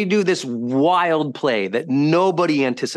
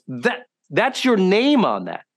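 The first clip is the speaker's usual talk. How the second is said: emphatic insistence; 4 semitones higher, slower than usual. Retold or imitated. Pressing the point to friend.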